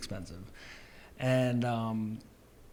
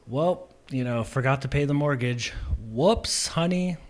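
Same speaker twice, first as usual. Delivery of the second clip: a louder, higher, hammed-up "Whoops, honey"; mock sheepish excuse; 3 semitones higher, 5 dB louder than usual. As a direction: play the clueless spouse shrugging it off. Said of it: "inserted it into other situations".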